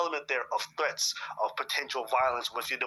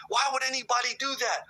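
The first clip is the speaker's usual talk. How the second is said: incredulous; 9 semitones higher than usual. Retold or imitated. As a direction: ask it like it's unthinkable. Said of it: "People say".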